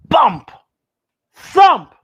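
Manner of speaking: spooky noises growing to a loud thump. A narrator's reading. Storyteller to kids, spooky noises building up to loud. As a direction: build from bump to a big thump.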